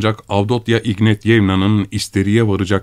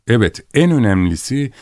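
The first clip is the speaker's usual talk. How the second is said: higher, insistent "en önemlisi"; stress on EN; 4 semitones higher than usual. A narrator's reading. Narrator insisting on what matters most, "en" stressed high. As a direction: lift "en" high to confirm the point. Narrator repeats phrase with growing emphasis.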